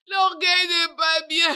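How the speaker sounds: sobbing cry of regret; crying shout. Acted. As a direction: wail it out in tears. Same line repeated, then cried.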